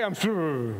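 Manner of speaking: Fonzie struggling. Retold or imitated. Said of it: "he couldn't say he was sorry".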